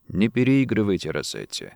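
low, softened reproof; soft. A narrator's reading. Saunders cautions the protesting banker, softly. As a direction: gently rein him in, falling away quietly. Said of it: "мягко сказал Саундерс".

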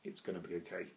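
softened, voiced mock whisper; retold self-whisper. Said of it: "I always whisper".

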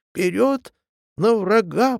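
battle cry. A narrator's reading. Emboldened echo urges on the attack, loud battle cry. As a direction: shout "Вперёд на врага!" to rouse troops. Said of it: "прокричало эхо".

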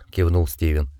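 usual speaking voice

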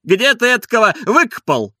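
high, loud mocking jab; taunting coachman. A narrator's reading. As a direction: jeer at him, pitched high and loud.

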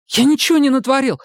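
high squealing denial; squealed. A narrator's reading. Испуганный Сомик взвизгивает, оправдываясь перед толпой. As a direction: squeal it in panic. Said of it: "взвизгнул Сомик".

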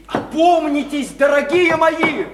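drawn-out, heartfelt exhortation; impassioned plea. Acted. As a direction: implore them to come to their senses. Pleading with them to come round.

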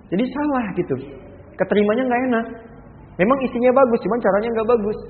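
preacher pressing the point loudly; emphatic preaching. Real, not acted. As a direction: stress that the method is wrong. Preacher emphasising wrong approach.

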